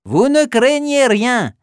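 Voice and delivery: calm them as the spider; spider reassuring. Acted. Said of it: "s'exclame une grosse araignée".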